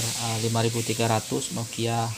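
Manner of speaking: usual speaking voice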